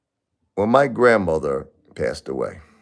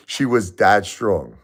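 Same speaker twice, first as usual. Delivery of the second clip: tearful laugh, louder and slow; laughing through tears, slow; 4 semitones higher, 6 dB louder, much slower than usual. Real, not acted. Widower repeats how strong his wife was, laughing tearfully. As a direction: laugh while the pride breaks through.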